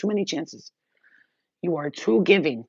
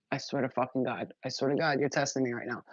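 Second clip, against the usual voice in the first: inner voice; 3 semitones lower, 6 dB quieter than usual. Retold or imitated. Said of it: "in my head".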